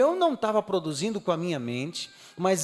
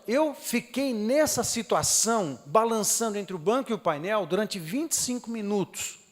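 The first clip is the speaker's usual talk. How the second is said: ordinary talk, nothing marked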